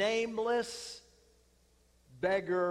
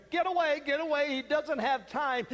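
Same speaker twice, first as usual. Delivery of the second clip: higher, louder brush-off; impatient shooing; 5 semitones higher, 4 dB louder, faster than usual. Retold or imitated. Disciples telling the beggar to go away, irritated shout. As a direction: shoo him off sharply.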